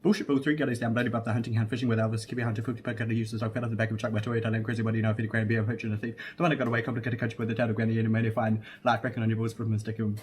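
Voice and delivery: rattling off the track list fast; speed reading. Acted. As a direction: race through it like the fastest talker alive. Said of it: "Mikhail picks up one of my C Ds".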